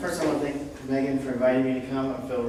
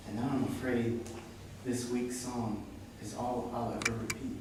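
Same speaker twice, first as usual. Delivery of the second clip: measured recital, sinking softer toward the close; poem reading; 8 dB quieter than usual. Acted. Poet telling an audience he was becoming a pulsar, measured recital. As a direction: let each line stand, easing down to the end. Reads own poem aloud.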